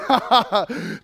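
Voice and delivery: a touch of laughter through the words; mild chuckling blessing; Jesus laughing. Retold or imitated. Jesus laughs while blessing Zacchaeus's household, lightly.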